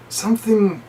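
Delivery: slow, drawn-out confession; slow and shaken. Retold or imitated. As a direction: drag the words out slowly. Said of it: "He's like".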